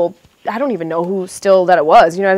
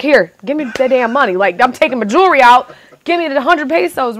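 raised, louder pleading demand; urgent retelling; 4 semitones higher, 5 dB louder than usual. Retold or imitated. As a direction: act out a hurried, desperate bargain. Acts out haggling away her jewelry.

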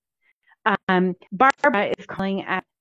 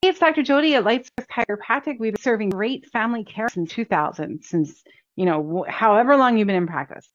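casual friendly. Shown as a demonstration. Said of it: "So do this in your voice".

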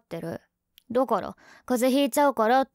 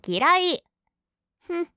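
high, loud pouting huff; tsundere; 8 semitones higher, 4 dB louder than usual. Acted. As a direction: snap it like a sulky girlfriend. Sulking after being teased. (ツンデレの叫び)

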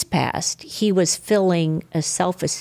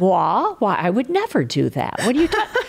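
mock innocence; 3 semitones higher than usual. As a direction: act innocent, as if wrongly accused. Mock innocence to son's warning.

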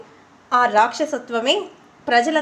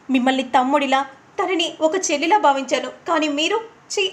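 hurt, betrayed anger; angry; 2 semitones higher than usual. Acted. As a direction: scold them and spit out the ఛీ. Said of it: "కోపంగా వెళ్ళిపోతూ".

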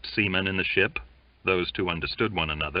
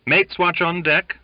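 calling out; 10 semitones higher, 6 dB louder than usual. A narrator's reading. Watch call across forecastle.

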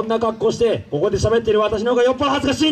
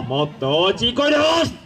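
urging louder; 2 semitones higher, faster than usual. Acted.

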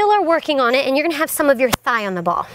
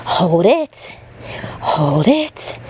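whispering; 6 semitones lower, much slower than usual. Real, not acted. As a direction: breathe the words without voice. Coach whispers encouragement in plank.

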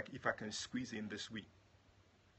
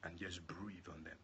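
hushed, slower plea; soft prayer; 3 semitones lower, 6 dB quieter, slower than usual. Acted. Preacher asking God to breathe on the sick, soft prayer. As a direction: drop down to a tender plea.

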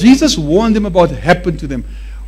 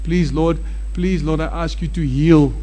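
softer, pleading please Lord; mock begging prayer; 3 semitones lower, 6 dB quieter than usual. Preacher mimicking a believer begging God to heal, timid. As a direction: beg timidly like a weak prayer. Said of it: "That's your problem".

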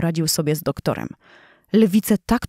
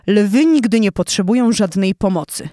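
haughty lion; 2 semitones higher, 4 dB louder than usual. Acted. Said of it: "zadzierając nos do góry".

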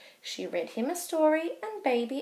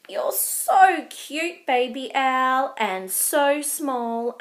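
cooing; 4 dB louder, slower than usual. Acted. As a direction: coo over something adorable. Rabbit cooing over Baby Owl.

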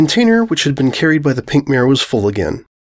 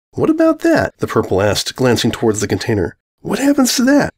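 curious purple mare. Acted. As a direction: ask with a wary glance. Purple mare's voice.

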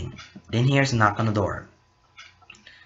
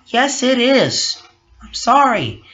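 higher, louder, slow tearful wail; crying; 12 semitones higher, 7 dB louder, slower than usual. Acted. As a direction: wail it through mock tears, slowly. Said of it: "And she starts to cry".

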